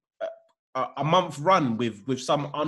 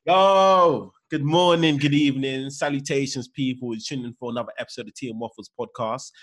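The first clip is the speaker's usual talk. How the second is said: podcast host intro; 2 semitones lower than usual. Acted. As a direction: open the show like a host.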